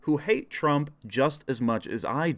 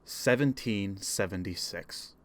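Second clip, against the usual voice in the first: formal political speech. Acted. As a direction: deliver it like a solemn campaign speech.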